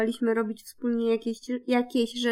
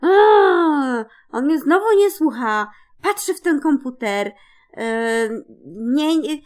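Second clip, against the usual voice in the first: irritated; 2 semitones higher, 6 dB louder than usual. Retold or imitated. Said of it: "poczułam taką irytację".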